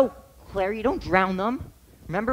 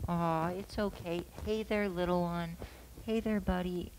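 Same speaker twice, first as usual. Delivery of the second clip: gentle coaxing; 6 dB quieter than usual. Shown as a demonstration. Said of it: "you can practice it".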